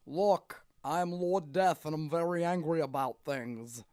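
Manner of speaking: mild, put-on anger; lightly voiced angry boss, little pitch change; angry Lord Death. Voice actor trying an angry take, half-hearted firmness. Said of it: "what if he was angry".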